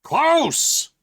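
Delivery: high, loud angry yell; angry shout. Acted. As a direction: bellow his name at the locked door. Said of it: "you shout angrily".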